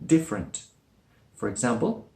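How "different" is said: "different" as diff-rent; two-syllable different. Shown as a demonstration. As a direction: say "different" without its middle vowel. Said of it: "it's mostly spoken like different".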